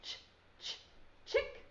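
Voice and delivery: ch, ch, chick with the ch sound split off and repeated; segmented ch sound. Shown as a demonstration. Teacher sounding out the first sound for young kids. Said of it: "They both start with the C H sound".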